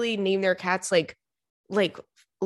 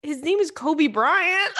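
high, slow punchline breaking into a shriek of laughter; cracking up; 10 semitones higher, slower than usual. Real, not acted.

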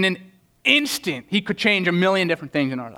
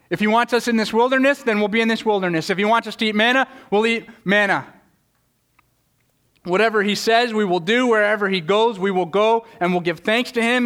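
fervent declaration; 5 semitones higher than usual. Retold or imitated. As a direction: proclaim it with conviction. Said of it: "they should have said".

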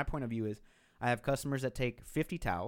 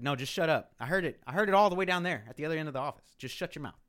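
louder, higher, quick mock scolding of both; retold telling off; 5 semitones higher, 5 dB louder than usual. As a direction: boss cutting them off, fast. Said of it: "the A G M is like".

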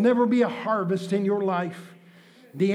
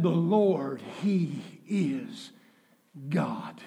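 quiet; 9 semitones lower, 8 dB quieter, much slower than usual. Acted. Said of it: "repeats the line".

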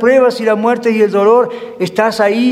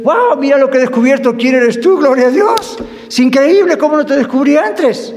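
a believer marveling at the spouse, amazed; amazed delight; 5 semitones higher than usual. Pretend. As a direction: gasp with wonder at the spouse. Spouse rediscovering partner, voiced.

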